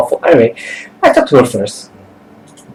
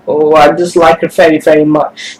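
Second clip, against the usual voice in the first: unconvincing insult; 3 semitones higher than usual. Acted. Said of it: "Was that convincing?".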